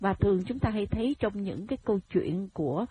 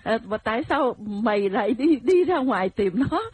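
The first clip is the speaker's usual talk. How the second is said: louder, higher mock telling-off; imitated scolding; 4 semitones higher, 5 dB louder than usual. A wife berating her straying husband, imitated scolding. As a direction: play a nagging wife having a go. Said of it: "em phải nghe chửi như vậy".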